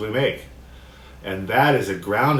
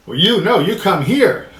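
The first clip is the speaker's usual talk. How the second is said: contentious; 8 semitones higher, 6 dB louder than usual. Pretend. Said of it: "a little bit of a battle going on".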